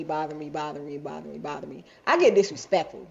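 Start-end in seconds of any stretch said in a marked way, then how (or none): 0.0-1.8 fading repetition. Real, not acted. Trailing repetition.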